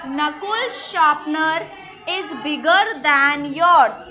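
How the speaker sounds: slow teacher dictation. Shown as a demonstration. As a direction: spell it out for the class, unhurried. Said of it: "teacher models sentence very slowly".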